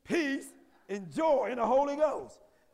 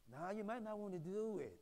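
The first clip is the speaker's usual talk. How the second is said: mock wrong God line; 5 semitones lower, 12 dB quieter than usual. Shown as a demonstration. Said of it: "That's not what God said".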